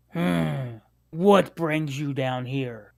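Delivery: gruff NPC voice. Acted. DM voicing NPC.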